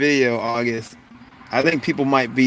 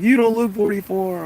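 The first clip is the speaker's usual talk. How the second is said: imitating others' surprise; 8 semitones higher than usual. Everyone reacting to the host's age, imitated surprise. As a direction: quote them in a higher, amazed voice. Quotes what everyone says.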